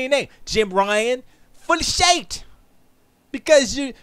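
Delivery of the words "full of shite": high-pitched mock-British "shit", said as "shite"; jeering fake British twang on "shit"; mock British accent. Mocking British executive, shit becomes shite.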